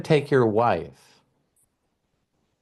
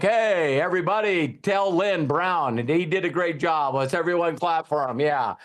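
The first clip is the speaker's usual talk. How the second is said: mic host announcing; 5 semitones higher than usual. Retold or imitated. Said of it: "some guy gets up on the mic".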